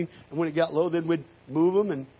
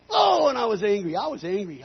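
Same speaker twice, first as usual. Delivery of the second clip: angry recollection; 5 semitones higher, 3 dB louder than usual. Retold or imitated. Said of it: "I was ticked off".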